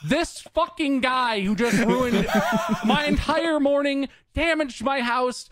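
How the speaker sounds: high, slow laughing disbelief; real stunned laughter; incredulous laughing. Real, not acted. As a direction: laugh in outrage at his nerve.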